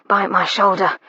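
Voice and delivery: breathless panting. Acted. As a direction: pant the words out. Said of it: "he panted".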